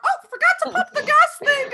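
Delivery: put-on high, loud flustered old lady. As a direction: squeal it like a scatterbrained old woman.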